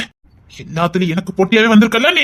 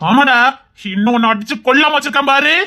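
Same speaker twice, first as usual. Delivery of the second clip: angry threat; 4 semitones higher than usual. Acted. Threatening the rival.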